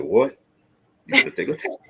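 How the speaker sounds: stunned there's a test at all; shocked disbelief. Retold or imitated. Retold shock at recruiter.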